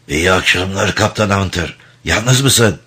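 harsh, grating rasp. Acted. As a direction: rasp it like a ruined throat. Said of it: "kulak tırmalayan hırıltılı bir sesle".

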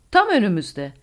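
loud, high burst of alarm; shouted warning. A narrator's reading. Co-pilot to captain about planes ahead, shouted warning. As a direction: cry out that danger is close. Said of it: "diye bağırdı".

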